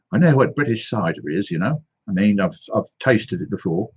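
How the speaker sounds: mock Australian accent, casual; lightly played Australian accent. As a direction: slip into a put-on Australian accent. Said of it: "That's your Australian accent".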